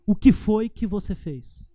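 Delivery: put-on slow, deliberate demand, eyes locked on the child; father repeating his question to the daughter, slow and stern. Shown as a demonstration. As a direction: press the question slowly and firmly. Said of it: "Desse jeito".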